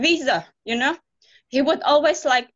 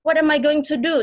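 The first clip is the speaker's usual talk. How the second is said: excited self-talk; 3 semitones higher than usual. Retold or imitated. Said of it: "tell myself".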